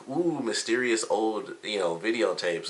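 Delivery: slow, hushed, spooky-teasing tone; mock mysterious. Jean teasing about the old videotapes, mock mysterious and slow. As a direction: drag it out like a ghost story. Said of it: "he does, like, this thing".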